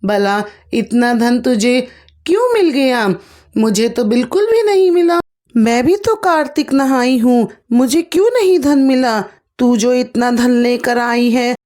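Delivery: storytelling mock scolding with pitch spikes; scolding bitterly. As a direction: berate the daughter-in-law, voice climbing. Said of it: "बुरी तरीके से कोसने लगी".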